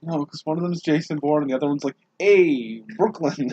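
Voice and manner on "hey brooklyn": loud, higher-pitched Brooklyn call-out; Mark Wahlberg. Acted. Friend shows the difference between two actors, Wahlberg impression. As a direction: throw out a Brooklyn tough-guy greeting. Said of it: "that is my Mark Wahlberg impression".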